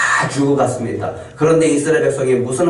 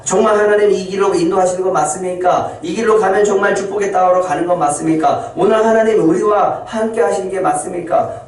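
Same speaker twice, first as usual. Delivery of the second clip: higher, insistent questioning; doubting Israelites; 4 semitones higher than usual. Acted. Israelites questioning God on the desert road, insistent and higher.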